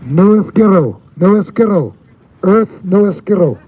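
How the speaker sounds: Spanish with a thick gringo accent; American accent Spanish. Shown as a demonstration. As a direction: say it like an American tourist. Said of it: "I sound like a gringo".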